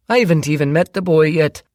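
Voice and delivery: smooth charming stepdad covering something; Ted's round tenor. A narrator's reading. Ted voiced.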